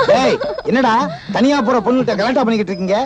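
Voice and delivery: mock heroic entrance. Village fellow scolds the gang harassing a girl, laughing. Hero bursts in on teasing gang.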